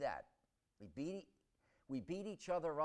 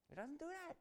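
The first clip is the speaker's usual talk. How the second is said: hushed; 13 semitones higher, 9 dB quieter, faster than usual. Acted. Sudden hushed conclusion after high what-ifs.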